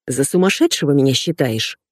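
usual speaking voice

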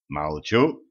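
low, mournful resignation. A narrator's reading. Кощей hushed by Женька, mournful. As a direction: give in sorrowfully, voice dropped. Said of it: "скорбно понурился Кощей".

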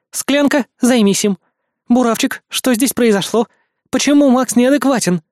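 a hint of a stern countess; commanding voice. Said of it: "от командного голоса графини".

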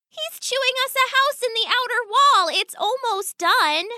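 gently insisting daughter; young daughter rat. Acted. Daughter answers father.

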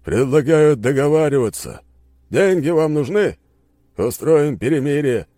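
smirking. Acted. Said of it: "с усмешкой произнёс".

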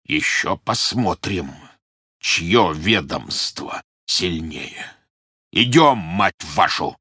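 very slow, grudging threat; sinister. Acted. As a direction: drag out a dark warning. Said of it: "зловеще произнёс Бурляев".

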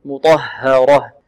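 slow "مطهرة" with heavy ط and audible breathy ه; clear ه. Shown as a demonstration. Teacher stresses the hidden letter, clear ه in "مطهرة". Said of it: "ولا بد من إيضاح الهاء".

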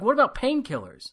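imitated high-pitched disbelief; incredulous nurse. Nurse asks the hurting patient about painkillers, retold disbelief.

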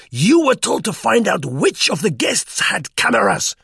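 high, loud, furious scolding; angry squeaky tirade. A narrator's reading. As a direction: berate him in a high squeak. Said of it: "squeaked Begin's voice angrily".

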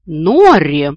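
громкий протяжный визгливый окрик; возмущённо окликни, растягивая имя; визгливый женский голос. A narrator's reading. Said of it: "раздался визгливый женский голос". (визгливый оклик строгой бабушки)

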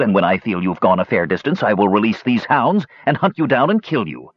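lightly voiced villain relishing the threat; rising to a taunting question at the end; threatening Toad. Toad threatens to hunt the Kender down, taunting.

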